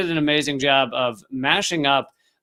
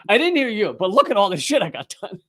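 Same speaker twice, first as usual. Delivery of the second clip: laughing mock quote; 6 semitones higher than usual. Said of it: "She's like".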